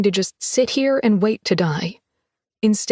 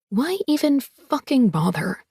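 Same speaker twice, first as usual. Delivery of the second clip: crushed and furious; 4 semitones higher than usual. Acted. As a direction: spit it out, beaten and angry. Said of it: "both crushed and furious".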